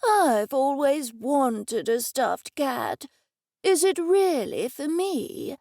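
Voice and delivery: put-on high, slow, thrilled old man voice; light up with delight, still frail; the old man hears he gets a stuffed cat, thrilled; excited old man. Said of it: "Mister Dennison sounded excited".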